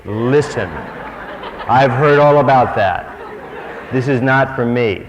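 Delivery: a loud, exasperated no-thanks; protesting refusal. Acted. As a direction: wave off the calling. Refusing the spiritual call.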